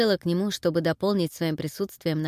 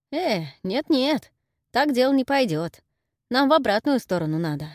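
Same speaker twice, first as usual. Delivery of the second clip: fussing granny; 6 semitones higher than usual. Acted. Granny turns the old man.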